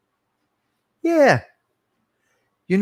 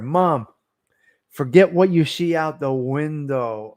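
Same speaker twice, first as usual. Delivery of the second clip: slow, louder retelling in T T's style; slower, louder take of the same line; T T's version; 3 dB louder, slower than usual. Retold or imitated. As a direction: give it T T's slow, drawn-out delivery. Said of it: "Here's T T".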